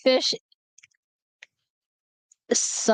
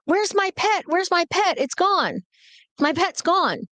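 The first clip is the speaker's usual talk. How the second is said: high, wailing mock panic; high-pitched imitation of a frantic sister; whiny sister; 8 semitones higher than usual. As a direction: play the teen sister wailing for her lost pet. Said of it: "she's like".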